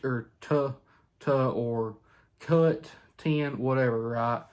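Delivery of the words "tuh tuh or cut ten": call syllable demo. Shown as a demonstration. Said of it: "get you used to saying".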